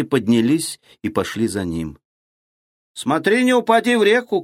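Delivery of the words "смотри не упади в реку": high shouted warning; calling out. Acted. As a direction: call after him, loud. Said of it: "крикнул ему вслед Ильюша".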